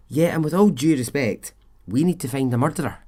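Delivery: a mildly sassy officer's comeback. Retold or imitated. Officer answering the suspect, with mild sass. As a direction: give it a little sass. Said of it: "Sassy police officer".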